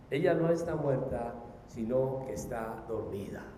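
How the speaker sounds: lowering voice, gentle and sure; calm assurance. Acted. Voices Jesus calming the mourners.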